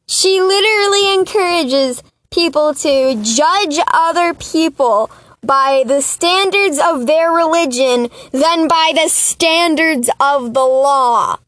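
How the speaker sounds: worked-up, indignant near-yell. Real, not acted. Podcaster ranting about a judge nominee, yelling. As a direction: get carried away yelling in outrage. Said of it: "Sorry, I'm yelling".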